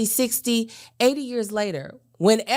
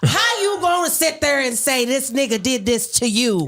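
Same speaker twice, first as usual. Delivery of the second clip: louder indignant shout; heated outburst; 4 dB louder than usual. Real, not acted. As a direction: rail against it, indignant. Heated rant about accused.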